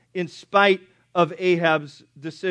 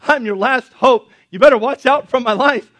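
loud, higher-pitched mock desperate plea; crying out; 4 semitones higher, 8 dB louder than usual. Elijah crying out to God as the last prophet, loud mock desperation. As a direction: wail out an acted plea at full volume. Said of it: "he's crying out to God".

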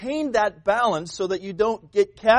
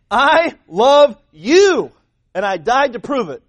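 very slow, much louder, drawn-out declaration; God's love; 5 semitones higher, 9 dB louder, slower than usual. Acted. God telling His people He loves them, slow and loud. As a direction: stretch each word like a vow of love. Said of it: "God says".

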